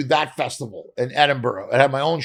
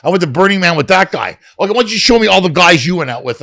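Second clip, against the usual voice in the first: mock banter; 2 semitones higher, 7 dB louder, faster than usual. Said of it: "retold couple banter".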